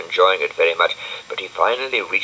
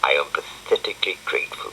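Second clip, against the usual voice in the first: breathy Zebedee; 3 semitones lower, 4 dB quieter, faster than usual. Acted. Zebedee voice, whispered fast.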